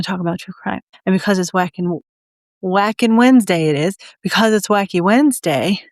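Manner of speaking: talking around a pencil; words muffled by a pencil held in the mouth. Real, not acted. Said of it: "I'm talking with a pencil today".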